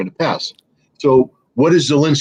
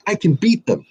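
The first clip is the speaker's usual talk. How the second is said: a higher, mock-confident boast; mimicking the general; 8 semitones higher than usual. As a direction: puff it up like a cocky general. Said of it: "He said".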